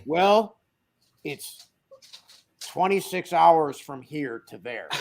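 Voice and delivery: slow, deadpan colleague reading the distance; Roy impression. Colleague Roy reports the long drive, slow deadpan impression. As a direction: drag it out like Roy. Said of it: "Killer Roy impression".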